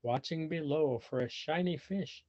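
put-on lively read-aloud for children; animated storybook reading; story narration. A narrator's reading. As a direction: tell it like a picture book to kids. Reading picture book aloud.

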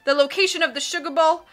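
loud, booming captain bellow; boisterous sea captain. A narrator's reading. Captain bellowing praise at Klaus over dinner, loud.

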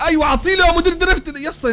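high, loud cheer; excited shout. Real, not acted. Gamer shouting hype at a drifting car. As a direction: yell encouragement at the drift.

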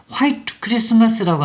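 화이트 with a Korean H at the front; H sounded. Shown as a demonstration. Teacher showing learners the mistaken reading, H sounded. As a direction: breathe the H in 화이트, hwa-i-teu. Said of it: "이쪽으로 소리를 내는 거잖아요".

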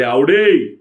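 high, loud desperate call; calling with all his strength. A narrator's reading. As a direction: shout her name with everything he has. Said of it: "सर्व शक्ती एकवटून आवडीला हाक मारली".

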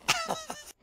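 sudden high laugh; burst of laughter. Real, not acted. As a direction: crack up in disbelief. Bursts out laughing after win.

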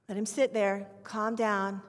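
ordinary talk

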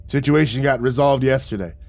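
lightly croaky smoker; understated croak, casual thanks. Acted. Smoker thanking Vic for a favor, mildly croaky. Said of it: "and croaked".

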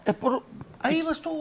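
put-on drunk heckler. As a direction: stumble over the words like a drunk.

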